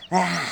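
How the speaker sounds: acted weary sigh; owl's sigh. A narrator's reading. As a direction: let out an audible sigh. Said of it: "пока Филин вздыхал".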